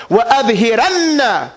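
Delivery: fast chanted وَأَظْهِرَنَّ; recited Arabic. Shown as a demonstration. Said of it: "It's an order".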